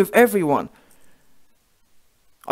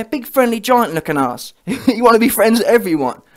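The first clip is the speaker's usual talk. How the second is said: usual speaking voice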